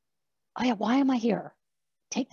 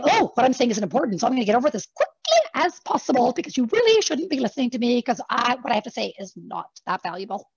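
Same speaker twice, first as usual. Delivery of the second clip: eep up self-doubt; 3 semitones higher than usual. Shown as a demonstration. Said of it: "we do that little eep up thing".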